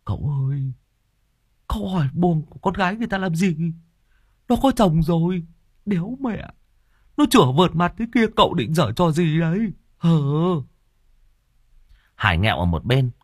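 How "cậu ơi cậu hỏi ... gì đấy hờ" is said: much higher, fast mocking sidekick; teasing whisper in ear. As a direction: needle the master with a cheeky high voice. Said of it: "nó ghé tai cậu".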